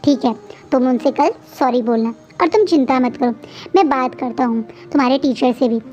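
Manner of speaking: soft, calm comforting voice; reassuring softly. Acted. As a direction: soothe the child gently. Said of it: "प्यार से". (प्यार से तसल्ली देना)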